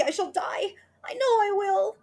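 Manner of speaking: high breathless whisper of dread; terrified whisper. Acted. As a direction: whisper it as if dying. Mrs Twit panics upside down.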